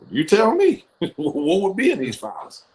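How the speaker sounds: high, laughing disbelief; laughing question. Retold or imitated. Son asking mom about the files, laughing.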